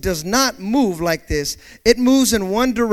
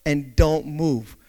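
slow calm instruction; 3 semitones lower, slower than usual. Shown as a demonstration. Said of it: "That's what it says".

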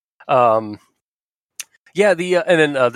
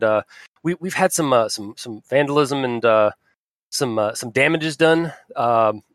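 hint of rural Southern Ohio accent. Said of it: "I keep going to that accent".

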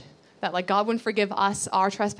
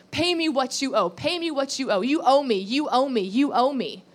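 demanding servant; 3 semitones higher than usual. Acted. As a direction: hammer the repeated demand like a creditor. Preacher acts servant choking debtor.

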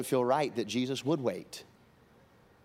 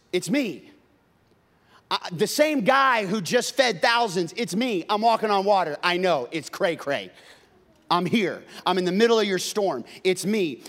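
1 emphatic Jesus; 4 semitones higher, 4 dB louder than usual. Acted.

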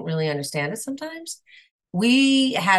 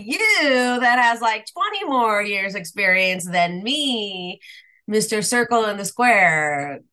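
tag; 4 semitones higher, 3 dB louder than usual. Retold or imitated. Incredulous retort to Jeff.

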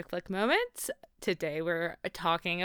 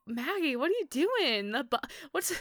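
high-pitched, softer exasperated plea; mock scolding; 6 semitones higher, 5 dB quieter than usual. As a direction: chide the character in high, playful disbelief.

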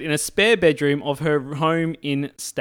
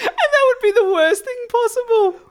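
much higher, breaking into laughter through the words; laughing; 3 dB louder than usual. Real, not acted. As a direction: talk through helpless laughter. Co-host cracking up mid-reply.

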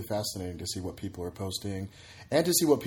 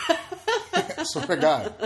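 high, slow words through laughter; laughing; 5 dB louder, much slower than usual. Real, not acted. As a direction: swear it while cracking up. Laughing at absurd comment.

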